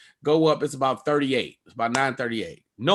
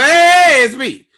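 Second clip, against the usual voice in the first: high shouted call to the gate agent; 10 semitones higher, 11 dB louder, much slower than usual. Retold or imitated. Traveler shouting at the closing door, loud high call. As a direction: yell to stop him closing the door.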